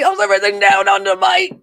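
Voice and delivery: hammed-up Aussie accent, loud; bad Australian accent. Host playfully greeting a viewer from down under, bad Australian accent. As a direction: put on a terrible Australian accent. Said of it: "worst accent ever".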